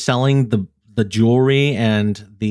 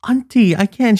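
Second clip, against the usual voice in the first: high, louder protest; vendor pleading; 11 semitones higher, 4 dB louder than usual. Retold or imitated. Young vendor protesting to the grandma, pleading. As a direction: plead with her politely. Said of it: "she's like".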